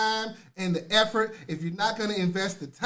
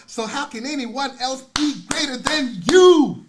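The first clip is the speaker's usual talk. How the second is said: big, slow, swelling rhetorical question; loud, slow and fervent; rising preacher climax; 3 semitones higher, 9 dB louder, slower than usual. Real, not acted. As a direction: build it up like a pulpit peak.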